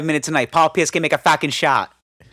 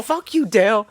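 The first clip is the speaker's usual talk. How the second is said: put-on drunk yell; 9 semitones higher than usual. Drunk Mikey snaps at Dale.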